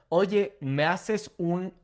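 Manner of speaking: slow demo. Shown as a demonstration. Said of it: "Can you do me a favor".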